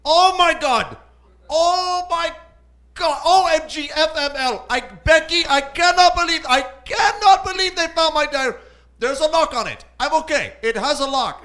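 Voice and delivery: put-on high, loud, frantic teen girl squeal; freaking-out high school girl. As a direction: panic like a teenage girl whose diary was found. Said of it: "freak out like a high school girl would".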